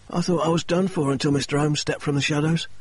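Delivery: lightly voiced Murray telling his fall; lightly voiced injured man.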